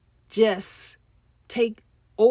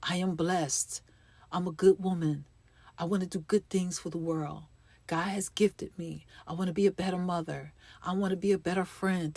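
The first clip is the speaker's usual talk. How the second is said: gentle affirmation; 5 dB quieter than usual. Shown as a demonstration. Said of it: "words of kindness to yourself".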